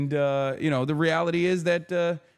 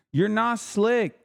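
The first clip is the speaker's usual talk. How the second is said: taunting; 5 semitones higher, much slower than usual. Acted. Teasing chat about ad break.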